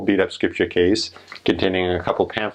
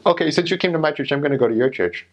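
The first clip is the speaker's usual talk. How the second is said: eager church lady; 6 semitones higher, faster than usual. Retold or imitated. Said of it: "This is".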